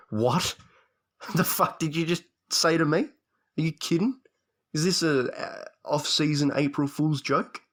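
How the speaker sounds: retelling a stunned reaction to a friend; incredulous disbelief. Retold or imitated. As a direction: laugh it off in shocked disbelief. Retold reaction to merger news.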